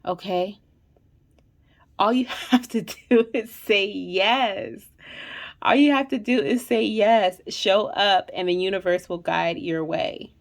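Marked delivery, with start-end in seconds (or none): 2.0-4.8 slow, laughing through the words; giggling slowly. Real, not acted. Laughs mid-sentence. 5.6-8.3 "All you have to do is say yes" louder, pressing on "you"; louder, emphatic repeat. Real, not acted. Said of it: "repeats it louder".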